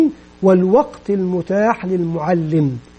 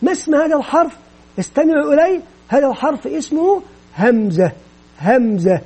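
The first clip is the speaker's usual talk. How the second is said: put-on bright, raised question to draw children in; engaging teacher question; 4 semitones higher than usual. Shown as a demonstration. Teacher drawing in small children with a question, then naming it. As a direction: hook the class, then name the letter. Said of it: "كوسيلة من وسائل الإثارة والجذب".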